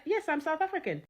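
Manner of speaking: put-on reply in a South African accent; mimicking a man's South African accent. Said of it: "replied back to me in a South African accent".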